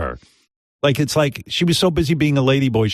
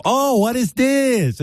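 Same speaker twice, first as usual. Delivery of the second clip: high, cooing naive wonder; long high "oh" of amazement; Chinny impression; 11 semitones higher, slower than usual. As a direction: marvel in a high, broken-English voice. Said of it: "brings her to a room and go".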